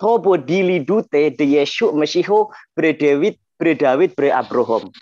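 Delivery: bacaan Aram Suryoyo yang lambat, vokal O bulat; dialek Suryoyo. Shown as a demonstration. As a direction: bacakan pelan gaya Suryoyo, "Mesiho", "Abrohom". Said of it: "Ini Suryoyo". (dialek Suryoyo, bervokal O)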